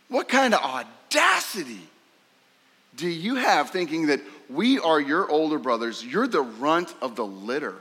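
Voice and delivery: outraged shout at the younger brother; furious brothers confronting Joseph; indignant brothers. Acted. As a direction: scold the upstart runt. Brothers voiced scolding Joseph.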